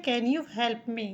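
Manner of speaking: "Can you help me?" spoken very slowly; slow model question, each word clear; slow teaching read. Shown as a demonstration. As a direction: dictation pace for beginners. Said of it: "तो हो गया".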